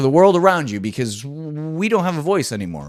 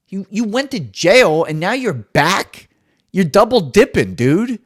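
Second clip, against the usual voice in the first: mock scolding; 7 semitones higher, 7 dB louder than usual. Scolding Billy McFarland.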